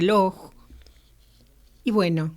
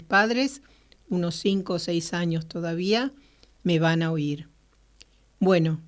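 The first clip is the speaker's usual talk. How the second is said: measured audiobook-style reading; story narration. A narrator's reading. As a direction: read the story aloud in clear phrases. Reads Kafka's story aloud.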